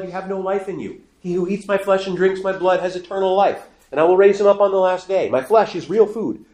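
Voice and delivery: high, insistent scriptural proclamation; emphatic doubling down. Acted. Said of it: "puts even greater emphasis".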